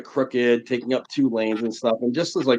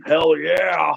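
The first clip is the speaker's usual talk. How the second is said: higher-pitched imitated wrestler catchphrase; rousing shout back; 5 semitones higher than usual. Wrestler answering fans outside the signing, imitated rousing shout. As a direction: toss it back to the fans, raised and punchy.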